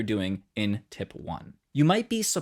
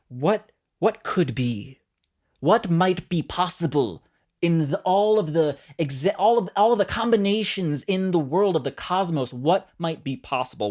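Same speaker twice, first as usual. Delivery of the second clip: dreamy wondering; 4 semitones higher than usual. Acted. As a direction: ask it like you're gazing at the cosmos. Voicing the open what-if question.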